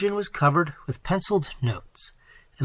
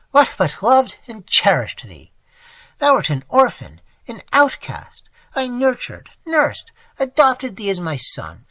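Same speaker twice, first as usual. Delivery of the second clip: anguished lament; 3 semitones higher, 4 dB louder than usual. Acted. Old man lamenting to the ward he raised. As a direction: pour out hurt and betrayal.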